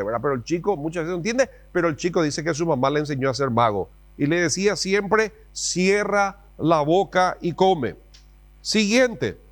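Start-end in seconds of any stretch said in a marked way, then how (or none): 5.5-8.0 higher, very slow mock command; lightly voiced stern mom. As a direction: order him like an impatient mother. Mom's order, acted.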